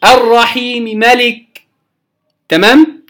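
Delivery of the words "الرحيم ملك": الرحيم ملك recited with the م merged, slow; Quran recitation. Shown as a demonstration. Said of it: "أسميها عارض الإدغام". (تلاوة الرحيم ملك بالإدغام)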